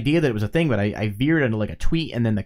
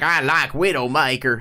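imitated Southern accent; Isaac. Co-host shows how a friend talks, mild Southern accent. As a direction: lightly put on a Southern twang. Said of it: "Isaac's got a Southern accent".

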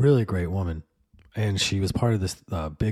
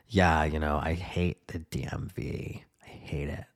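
overheard gripe; 4 semitones lower, 4 dB quieter than usual. Retold or imitated. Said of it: "and she was like".

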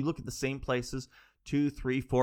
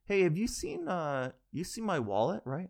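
passive-aggressive; 5 semitones higher than usual. Retold or imitated. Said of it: "passively aggressively".

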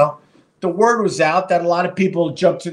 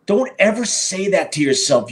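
normal talking voice

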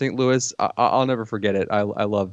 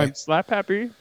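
snooty film critic voice; 10 semitones higher than usual. Acted. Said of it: "I will talk like this".

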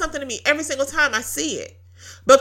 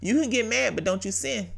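softer, hushed warning from the Spirit; quiet inner voice; 3 semitones lower, 6 dB quieter than usual. Retold or imitated. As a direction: say it softly like a gentle inner rebuke. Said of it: "I heard the Holy Spirit say that".

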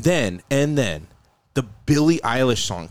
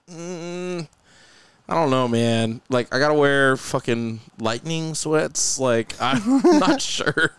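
hesitant, drawn-out reluctance; slow, unconvinced hedging with a long "mm"; skeptical; slower than usual. Retold or imitated. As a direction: imitate someone doubtfully weighing an offer. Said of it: "initially he was kinda skeptical".

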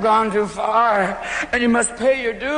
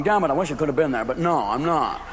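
mock elegant snob; 5 semitones lower than usual. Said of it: "very elegant people going".

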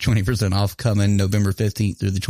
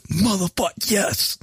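high-pitched retold glee at normal volume; childlike inner excitement; 10 semitones higher, slower than usual. Voicing the child inside on getting a gift, childlike excitement. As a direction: squeal it like a thrilled five-year-old. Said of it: "the child in me comes out".

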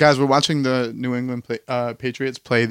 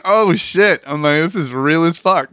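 mock surprise; 5 semitones higher, 4 dB louder, slower than usual. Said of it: "y'all really talk like this".

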